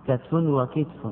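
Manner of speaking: "كتف وكتف" as katfun wa-kitfun; "كتف وكتف" with vowelless ta in both; two variants, katf, kitf. Shown as a demonstration. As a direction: say "كتف وكتف" slowly, first with a, then i. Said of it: "جاء في مثل كتف".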